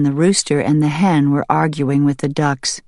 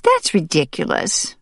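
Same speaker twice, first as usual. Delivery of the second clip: scoffing; 5 semitones higher than usual. Acted. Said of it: "scoffed the hen".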